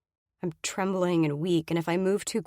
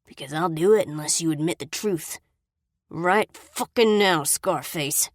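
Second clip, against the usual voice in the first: louder and slow on right fucking now; menacing threat; 4 dB louder than usual. Acted. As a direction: spit the ultimatum at her. Brady threatening her.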